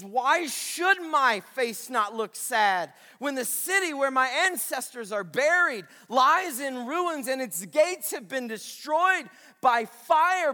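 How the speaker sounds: trembling. Acted. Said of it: "with trembling in his voice".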